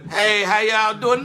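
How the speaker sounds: slow, timid greeting; awkward slow mic greeting; choking on the mic. Retold or imitated. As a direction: freeze up and force it out. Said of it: "I nutted up".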